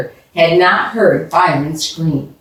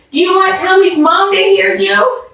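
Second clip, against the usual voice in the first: scolding; 11 semitones higher than usual. A narrator's reading. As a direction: tell him off urgently. Scolding the screaming boy.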